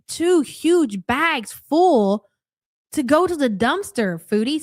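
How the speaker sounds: drawn out slowly in disbelief; incredulous. Real, not acted. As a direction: stretch it out, incredulous. Incredulous dig at Foodie.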